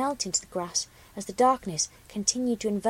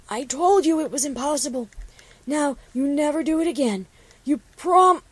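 higher, louder scolding character voice; scolding friend; 4 semitones higher, 5 dB louder than usual. Acted. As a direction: tell her off like a worried friend. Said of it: "Copper admonished".

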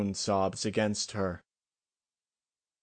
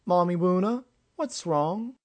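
put-on very high, small child's questioning voice; worried tot asking mother, rising at the end; lisping little child, pitched way up; little foal; 9 semitones higher, 4 dB louder than usual. A narrator's reading. Small foal asks adoptive mother.

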